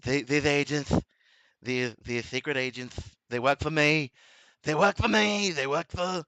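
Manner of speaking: mock politician impression, halting and repetitive; Donald Trump. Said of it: "Did you mock Donald Trump".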